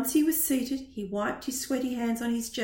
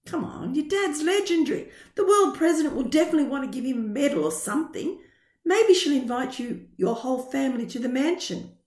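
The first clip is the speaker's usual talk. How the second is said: excited; 3 semitones higher, 5 dB louder than usual. Acted. Friend hyping up the dad.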